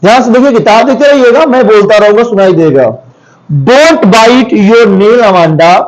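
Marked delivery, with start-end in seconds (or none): 3.6-5.8 mother's scolding. Retold or imitated. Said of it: "कौन बोल रहा है? मम्मी बोल रही है।".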